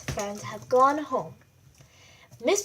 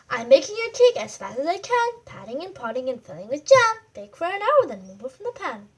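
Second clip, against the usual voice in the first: baker's rhyme; 5 dB louder, faster than usual. Acted.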